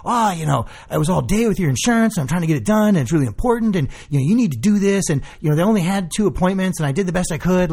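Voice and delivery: hammed-up self-justifying run-on; imitated defensiveness. Patient imitating doctor's excuses about the insurance, defensive. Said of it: "all defensive about it".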